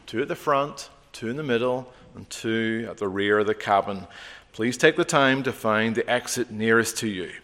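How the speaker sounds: lightly voiced cabin safety announcement; a hint of a flight attendant reading the safety script. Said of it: "we will hear familiar words".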